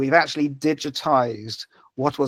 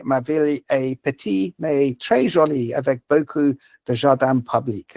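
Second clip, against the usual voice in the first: English-accented French. Shown as a demonstration. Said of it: "very impressed with my French accent".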